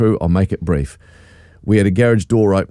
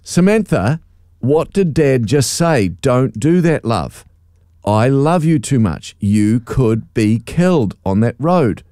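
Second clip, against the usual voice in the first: gentle warning; slower than usual. Retold or imitated. Gentle dad telling off.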